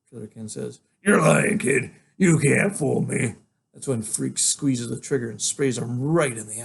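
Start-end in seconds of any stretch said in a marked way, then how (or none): 1.0-3.3 villain scoffing. Acted.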